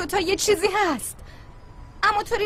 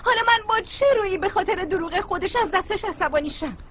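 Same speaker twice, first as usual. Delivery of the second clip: a touch of crying through the question; teary self-reproach; tearful. Acted. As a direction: ask it through held-back tears. Distraught friend blaming herself.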